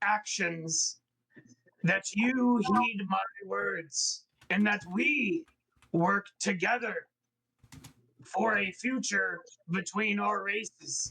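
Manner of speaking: low, deep, guttural monster-king voice. Voicing the king of the face spiders addressing visitors, in a deep guttural voice. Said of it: "in a deep guttural, he says".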